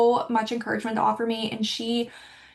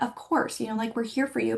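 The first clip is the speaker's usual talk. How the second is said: gentle reassurance; 4 dB quieter than usual. Retold or imitated. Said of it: "more like a".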